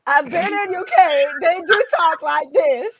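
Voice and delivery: loud, insistent fake British; botched British accent. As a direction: defend a badly faked British accent. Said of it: "That's my British".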